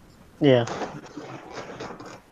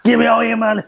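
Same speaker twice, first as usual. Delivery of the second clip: villain voice; 6 semitones higher, faster than usual. Pretend. Joining the villain bit.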